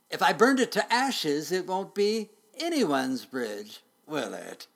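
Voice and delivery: loud, high taunt dropping at the end; threatening dragon. A narrator's reading. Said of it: "said the dragon".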